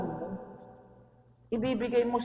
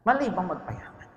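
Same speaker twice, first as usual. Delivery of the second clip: softer, quieter repeat of the question; 4 semitones lower, 8 dB quieter than usual. Shown as a demonstration. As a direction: ask "Mali bang magpayaman" again, much softer. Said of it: "Tanong kayo, kayo, tanong".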